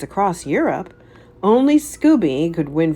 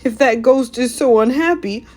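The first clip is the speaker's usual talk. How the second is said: high, louder nervous Shaggy voice; gulping nervously; 4 semitones higher, 5 dB louder than usual. A narrator's reading. Shaggy to the gang, high nervous gulp. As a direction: swallow your fear and suggest quitting. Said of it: "gulped Shaggy".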